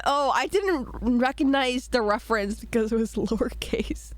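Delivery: whispered through a giggle; breathless laughing whisper. Real, not acted. Giggling admission.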